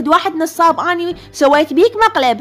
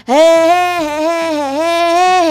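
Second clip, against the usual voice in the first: put-on gleeful kid whoops; child cheering; much slower than usual. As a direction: cheer like a thrilled little boy. Son cheering at the fair.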